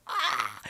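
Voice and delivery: short, high-pitched wail; high crying "ah". Retold or imitated. Fan re-enacting her reaction to the goal, high cry. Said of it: "and I'm crying".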